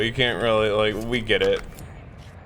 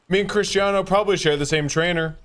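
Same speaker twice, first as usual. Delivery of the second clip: Trump impression. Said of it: "He'd be like".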